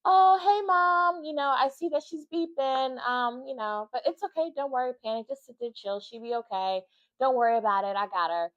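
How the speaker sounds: a lightly voiced breezy nurse, high on the greeting; easygoing, unhurried, brushing the worry off; carefree nurse. Mom imitating the laid-back nurse who shrugs off the alarms, lightly breezy. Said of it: "She's just like".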